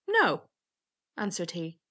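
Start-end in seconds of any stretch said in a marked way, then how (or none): 0.1-0.5 high, loud denial; youth's emphatic protest; indignant youth. A narrator's reading. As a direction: fling the word out high. Youth retorts in the tale.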